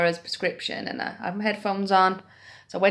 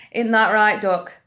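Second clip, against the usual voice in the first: put-on old lady asking; 2 semitones higher, 6 dB louder than usual. Old ladies asking narrator.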